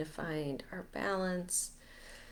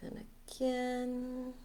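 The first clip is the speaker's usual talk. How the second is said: guided meditation; 2 semitones higher, 5 dB quieter than usual. Acted. Leader guiding listeners to let heavy energies go, guided meditation. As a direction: ease them through each breath, unhurried. Leads a breathing release meditation.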